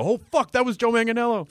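high, startled realization; suddenly recognizing the actor; surprised recognition. Pretend. Imagined audience recognizing him.

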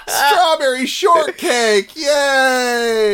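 put-on high, slow little kid voice; eager child calling to dad. Kid asking parents for breakfast.

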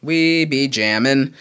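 slow, hammed-up Jamaican accent; a clumsy fake Rastafarian accent; bad Rastafarian impression. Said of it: "impression of a bad impressionist doing an impression of a Rastafarian".

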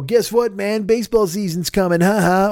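mock cameo greeting. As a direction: rib a buddy in a silly voice. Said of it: "call your friend and go".

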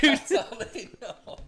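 high, loud, slow mocking voice; silly mock voice. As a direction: ham it up in a high squeaky voice. Mock voice continues.

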